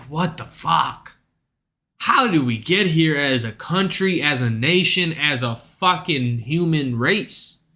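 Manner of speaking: low, slow, dragging disbelief; weary disbelief. Retold or imitated. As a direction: sigh out the question in dismay. Exasperated inner thought.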